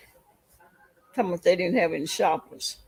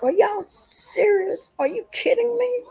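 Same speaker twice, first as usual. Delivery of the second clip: mock yell; 14 semitones higher than usual. Yelling at the grocery shoppers, high and exasperated. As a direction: throw up your hands, are you serious. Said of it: "I yelled at them people. I was like".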